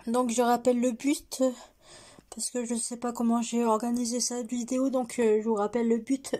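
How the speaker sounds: raspy, worn-out voice; hoarse from yelling at a game. Real, not acted. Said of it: "Je suis désolée si ma voix est cassée".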